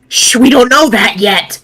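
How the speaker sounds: high, excited shushing; playful hush. Real, not acted. Shushing friends about a spoiler, high and playful. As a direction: hush the others before the spoiler.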